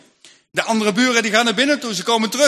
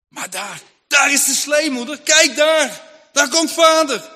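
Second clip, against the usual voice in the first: put-on children call out higher and louder; excited shouting; 5 semitones higher, 3 dB louder than usual. Children spotting the sleigh, shouting excitedly to mother. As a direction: shout with joy at the sight.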